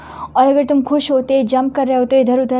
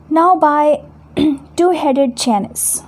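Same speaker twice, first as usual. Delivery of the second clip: dramatic recitation; 4 semitones higher, slower than usual. Shown as a demonstration. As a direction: boom out the oath by two-headed Janus. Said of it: "So Selenio is saying". (ज़ोर से, धीरे नाटकीय पाठ)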